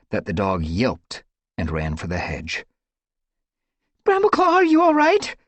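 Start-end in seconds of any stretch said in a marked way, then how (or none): 4.0-5.3 breathless, higher and louder anxious question; breathless worried call; gasped. A narrator's reading. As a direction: gasp it out in worry. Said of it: "Leafpaw gasped".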